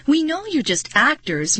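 high, anxious outburst; shrill blurting. A narrator's reading. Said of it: "Marty blurted out shrilly".

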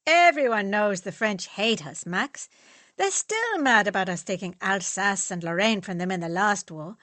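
loud, forceful political rant; heated rant. Acted. Fritz lecturing friends, heated about the French. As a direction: push the point hard and loud.

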